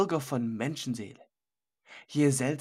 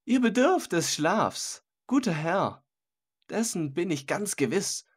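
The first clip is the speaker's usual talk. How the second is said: a raised, glib host cutting in; jovial host waving off a guest, lightly voiced; mocking interruption. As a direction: brush the old man off with false cheer. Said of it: "Er fuhr deshalb gleich dazwischen und rief".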